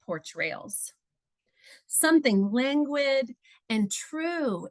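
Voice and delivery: slow, measured poetry reading. Acted. Poet reads her poem Scales to listeners, measured poetry reading. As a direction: read the poem evenly, lingering on phrases with pauses between.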